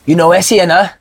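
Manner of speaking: lightly imitated Namibian accent. Namibian teammate sizing up his new roommate, Namibian accent. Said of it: "it was a similar accent".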